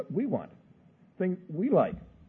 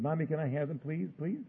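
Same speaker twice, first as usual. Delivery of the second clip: lightly voiced little girl begging, higher pitch; pleading child; 4 semitones higher than usual. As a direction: coax Mommy like a small child.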